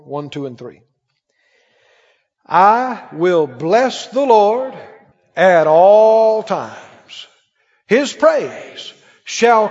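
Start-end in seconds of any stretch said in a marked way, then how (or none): 2.4-4.7 slow, swelling psalm reading, loud peaks; scripture reading. Acted. Preacher leading the church in the psalm, slow and ringing. 5.4-7.3 slow, swelling psalm reading, loud peaks; scripture reading. Acted. Preacher leading the church in the psalm, slow and ringing.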